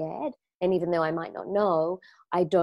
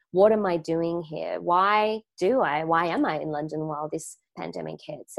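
big-mind calm. Shown as a demonstration. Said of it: "When I get into a bigger mindset".

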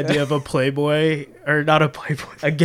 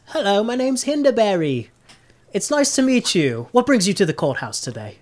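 higher, cheery halfling greeting; portly halfling clerk; 5 semitones higher than usual. Acted. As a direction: play the polite little clerk, pitched up. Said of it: "a portly halfling, and he says".

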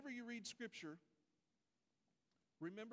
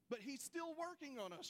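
raised, louder, stress on still; preaching emphasis; 7 semitones higher, 3 dB louder than usual. Real, not acted. Preacher proclaims to church, voice raised and louder.

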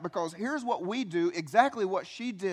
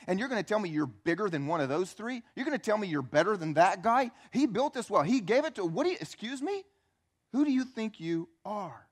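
indignant. Acted. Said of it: "She's still irritated".

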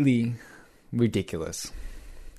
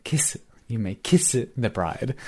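imitating a thick Japanese accent; Japanese-accented wedding line, half whispered; 2 semitones higher than usual. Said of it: "say that part with a really thick Japanese accent".

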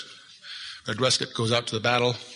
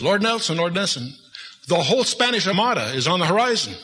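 put-on alarmed cabin boy; 6 semitones higher than usual.

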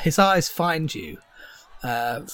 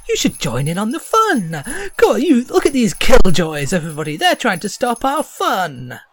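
rousing jester; 8 semitones higher, 7 dB louder than usual. Acted. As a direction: whip the crowd up against killjoys.

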